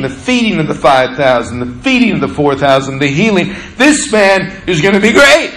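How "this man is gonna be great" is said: eager, higher-pitched acclaim; excited disciples. Acted. Disciples wanting seats beside Jesus, excited. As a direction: proclaim it high and keen, as eager followers.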